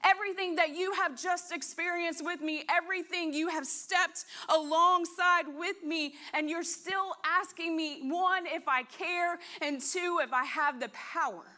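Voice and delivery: a teacher rebuking his doubting students; incredulous rebuke. Retold or imitated. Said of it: "But teacher looks at them and says".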